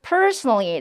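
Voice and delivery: personally with first syllable held long; PERsonally, modelled for repeating; English word stress. Shown as a demonstration. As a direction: stretch PER in "personally". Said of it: "personally 따라해볼게요".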